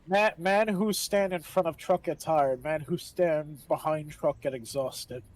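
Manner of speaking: slow, solemn mock proverb; fake proverb voice. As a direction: deliver it like a wise old saying. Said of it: "my favorite fake Chinese quote".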